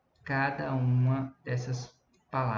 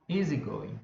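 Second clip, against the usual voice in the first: teacher's demo of easygoing, stressed on EA; stress on first syllable; 3 semitones lower than usual. Shown as a demonstration. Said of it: "dar uma entonação maior pra essa sílaba".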